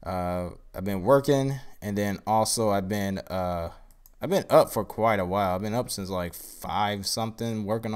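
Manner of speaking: tired, groggy voice; sleepy, worn-out speaking voice. Real, not acted. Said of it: "excuse my groggy voice".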